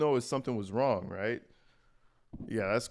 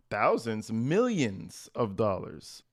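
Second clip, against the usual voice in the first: "millions" drawn out slowly with a pitch peak; stress on millions; much slower than usual. Real, not acted. Streamer correcting the amount stolen, stretching "millions" for emphasis.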